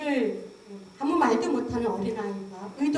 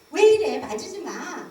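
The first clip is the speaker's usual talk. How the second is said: a sudden loud, higher snap then drop; mock angry rejection; 3 semitones higher, 6 dB louder than usual. Imitating a mother rejecting her baby, loud and higher. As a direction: bark it at the baby, then cut off. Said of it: "거절해요".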